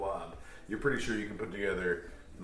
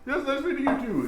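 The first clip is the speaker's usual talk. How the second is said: vain ghost voice; 6 dB louder, faster than usual. Acted. Ghost replies.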